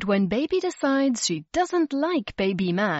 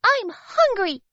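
much higher, louder, slow demand; baby insisting on more food; insistent baby; 12 semitones higher, 5 dB louder, slower than usual. A narrator's reading. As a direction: whine it slowly and firmly. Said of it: "insisted Baby".

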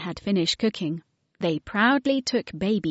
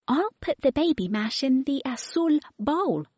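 put-on little girl voice; 7 semitones higher than usual. A narrator's reading. Mary speaks.

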